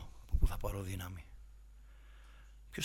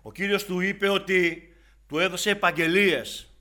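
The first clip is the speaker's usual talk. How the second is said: high, loud preacher's cry; impassioned sermon climax; fiery preaching; 7 semitones higher, 15 dB louder than usual. Acted. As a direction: preach it out with fire, slowing at the end. Preaching at full force.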